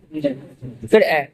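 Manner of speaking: फिर ए stretched out very slowly and low; very slow low drawl. Shown as a demonstration. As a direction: drag the ए out, deep and slow. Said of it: "teacher drawls letter". (बहुत धीमा, नीचा खिंचा हुआ)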